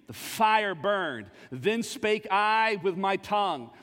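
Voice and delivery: slow, measured reading of the verse; scripture reading. Acted. Preacher reading Psalms to the congregation, slow and measured. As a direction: savor each word as you read it aloud.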